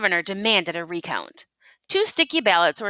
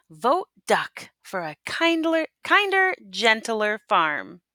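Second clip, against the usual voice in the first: slogan read; 3 semitones higher than usual. Acted. Campaign poster slogan read out.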